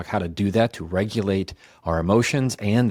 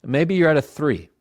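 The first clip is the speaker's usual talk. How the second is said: "Maybe you're at a three" said a bit higher and brighter, as a level three; a notch up; 5 semitones higher than usual. Shown as a demonstration. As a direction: lift the voice slightly on "three". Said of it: "stay right here at a one".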